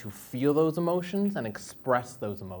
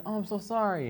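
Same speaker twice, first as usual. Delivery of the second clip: mock sympathy; 9 semitones higher than usual. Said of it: "and they're like".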